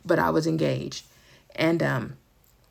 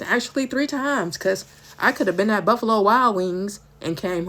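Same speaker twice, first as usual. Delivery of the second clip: louder, emphatic testimony; bold and firm; 3 dB louder than usual. Retold or imitated. Answering the doctor's grim news, loud and firm. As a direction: preach it back boldly to the doctor. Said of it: "I started getting bold and firm".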